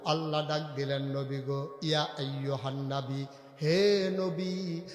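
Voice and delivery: melodic sermon recitation. Real, not acted. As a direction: intone steadily, stretching phrase endings. Preacher's measured melodic recitation.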